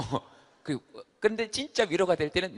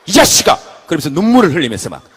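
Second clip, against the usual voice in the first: loud, higher, furious screaming; enraged yelling; 3 semitones higher, 13 dB louder than usual. Acted. Head screams at right hand, enraged. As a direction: lose it completely at the hand.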